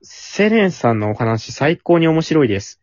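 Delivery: slow, measured radio letter reading; letter read-aloud. Acted. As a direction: read the fan message out clearly, unhurried. Reads a listener's letter. (お便りの朗読)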